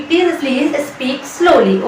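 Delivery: very slow, stretched words; slow teaching demo. Shown as a demonstration. Teacher modelling the phrase slowly for students. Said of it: "इसकी English होगी".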